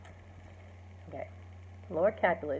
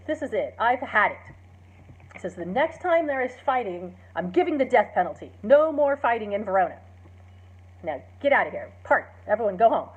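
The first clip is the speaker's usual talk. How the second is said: louder, angry ruling from the prince; furious prince; 4 dB louder than usual. Retold or imitated. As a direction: lay down the law, fed up. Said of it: "he's furious".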